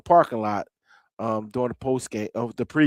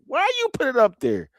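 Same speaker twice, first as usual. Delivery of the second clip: incredulous friend; 12 semitones higher than usual. Retold or imitated. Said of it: "I know he's looking at it like".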